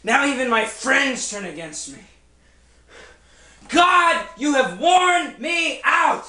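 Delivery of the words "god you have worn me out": anguished cry. Acted. Job cries out to God.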